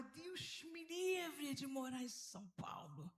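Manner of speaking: slow, drawn-out "God forbid"; mock horror. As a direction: stretch it out in playful aversion. Voices her own old dread.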